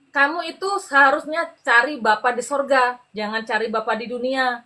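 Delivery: gently worded telling-off, measured and firm; politely veiled scolding. Retold or imitated. Nun corrects the runaway about seeking her father, politely cross. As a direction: imitate a nun's restrained reproach. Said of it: "dengan bahasa halus, tapi saya tahu dia marah".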